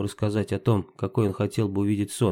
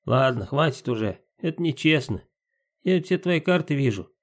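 pixie; 4 semitones higher than usual. Acted. Domovoi Timka's voice.

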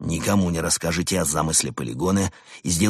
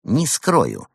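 vengeful; 6 semitones higher, 3 dB louder than usual. A narrator's reading. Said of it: "мстительно заверил Евгений".

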